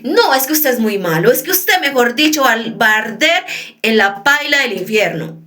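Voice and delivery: hammed-up insult, hurling names; insulting scolding. Shown as a demonstration. Preacher acting out how not to insult someone. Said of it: "voy y le digo".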